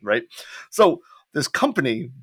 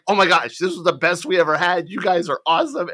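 gushing client; 6 semitones higher, 3 dB louder than usual. Retold or imitated. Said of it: "they came back and they were like".

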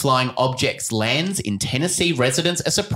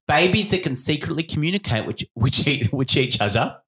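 put-on baby voice; 3 semitones higher than usual. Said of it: "I'm doing a baby voice as I'm saying it".

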